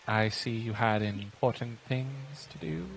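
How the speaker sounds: slow, soft guilt-tripping remark; passive-aggressive sulk. Acted. Invisible cook to the girl who stood him up, slow passive-aggressive sulk. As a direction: lay the guilt on slowly. Cook sulks at missed date.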